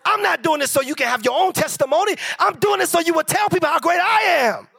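God's voice rising to a shout; voicing God. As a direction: build God's words into a booming proclamation. Preacher voicing God, building up.

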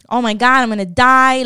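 comic doom, lightly hammed-up; freaking out. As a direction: re-enact a dramatic freak-out. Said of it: "freaking the fuck out".

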